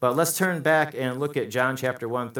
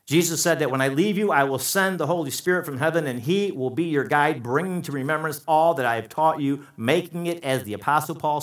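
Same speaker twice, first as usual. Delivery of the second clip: raised, insistent pulpit voice; forceful preaching; 5 semitones higher, 5 dB louder than usual. Real, not acted.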